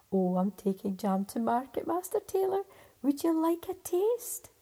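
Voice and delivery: a hint of a cheerful country wife; farmer's wife. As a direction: offer the jam kindly. Farmer's wife answers the tailor.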